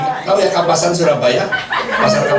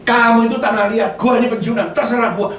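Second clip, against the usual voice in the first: retold divine rebuke, pitched higher; God angry; 5 semitones higher than usual. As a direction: put the complainer firmly in their place. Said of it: "Tuhan marah".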